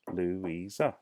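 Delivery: "Louisa" sounded out in three parts; split into syllables. Shown as a demonstration. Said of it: "my name has three".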